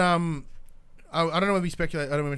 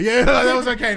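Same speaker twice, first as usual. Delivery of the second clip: laughing it out, higher and louder; 11 semitones higher, 10 dB louder than usual. Shown as a demonstration. Host laughs as she repeats her verdict on Nia. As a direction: give a laughing, grudging approval.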